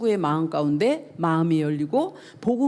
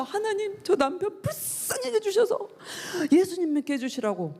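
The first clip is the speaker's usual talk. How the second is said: imitated tearful prayer; 9 semitones higher than usual. Wife secretly praying for her husband's faith, imitated tearful pleading. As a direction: re-enact begging God through tears. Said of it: "막 울면서".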